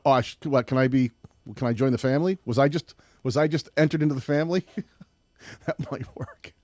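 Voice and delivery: usual speaking voice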